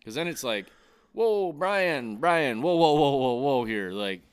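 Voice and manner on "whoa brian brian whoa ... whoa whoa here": loud, higher alarmed "whoa, whoa"; loud scolding. Retold or imitated. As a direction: rein someone in, shouting. Imitating owner scolding the GM.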